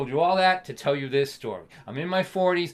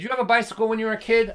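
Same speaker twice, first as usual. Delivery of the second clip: mock stern dad; 6 semitones higher, 6 dB louder, much faster than usual. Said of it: "he said to me".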